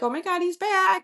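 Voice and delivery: high-pitched gushing nurses; excited exclamation. Retold or imitated. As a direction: squeal it like nurses spotting a favorite visitor. Nurses exclaiming as boyfriend returns.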